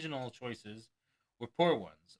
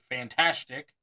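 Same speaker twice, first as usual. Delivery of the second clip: louder "Fantastic!"; brayed; 7 dB louder, slower than usual. Retold or imitated. Magician braying praise for laughs, louder. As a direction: bray it for a laugh.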